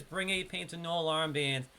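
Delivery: relaxed New York accent read; easy New Yorker delivery of the quest text. Shown as a demonstration. Streamer reads the quest objective in his natural New York accent. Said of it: "it's better to talk like this".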